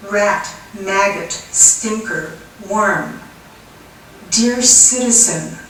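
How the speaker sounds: emphatic, measured verse reading; poem recitation. Acted. Poet addresses the citizen in an anti-war poem, emphatic recitation. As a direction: punch out the list, then slow to a weighted close.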